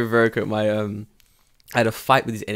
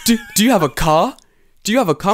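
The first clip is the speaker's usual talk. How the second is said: high, loud, eager asking; squeaky high mock of the NHK man; NHK man's high questioning voice; 9 semitones higher, 7 dB louder than usual. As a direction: pitch it way up like a pushy collector. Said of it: "And he's like".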